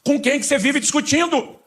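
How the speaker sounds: high, slow, incredulous question to believers; asking who they keep arguing with, drawn out high; mock puzzled question. Pastor asking believers who they argue with, high and incredulous. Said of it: "eu pergunto pra alguns".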